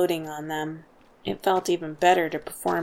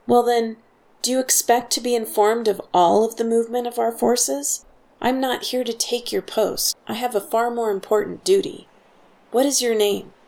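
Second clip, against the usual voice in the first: higher, louder commanding tone; haughty officer; 5 semitones higher, 4 dB louder than usual. A narrator's reading. Fake officer bullying the guard for answers, haughty. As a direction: lord it over a lowly guard.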